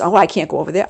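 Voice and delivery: high, loud, eager put-on voice; hammed-up excited explorer; mock adventurous voice. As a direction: squeal it like a thrill-seeker.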